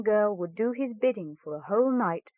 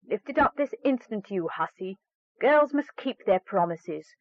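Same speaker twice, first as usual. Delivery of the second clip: stepmother scolding. Acted. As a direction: snap at the girl like a harsh stepmother.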